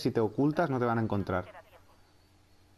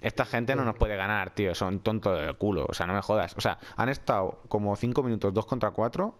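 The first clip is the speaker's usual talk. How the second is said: excited rant. Real, not acted. Se burla de los rivales. (bronca eufórica)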